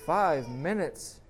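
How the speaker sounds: storyteller's restrained scream of disbelief. A narrator's reading. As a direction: draw it out, then raise the voice in accusation. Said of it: "screams the man".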